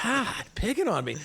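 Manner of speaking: high, hammed-up grievance; mock-wounded whine. Host complaining he is picked on, in mock-wounded high voice. Plays the picked-on victim, laughing.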